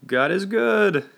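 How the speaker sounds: very high, slow, loud squeak. A narrator's reading. Guest unused to shouting at the microphone, squeaked out. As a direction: squeak it out, pitch shooting up. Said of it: "squeaked out".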